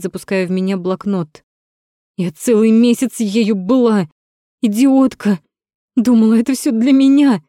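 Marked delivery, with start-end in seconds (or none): 2.2-7.4 high, loud furious cry; furious shout. Acted. Natasha screams at Rom about the wasted month. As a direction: scream it at him, stinging with hurt.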